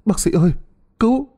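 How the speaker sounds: high, fast, frantic cry for help; husband frantically calling the doctor; panicked call. Acted. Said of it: "Chú Hải hớt hải gọi".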